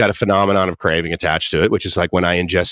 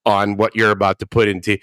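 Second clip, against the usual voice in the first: mock polite reply; slower than usual. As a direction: answer with exaggerated patient politeness. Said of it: "And I'm going".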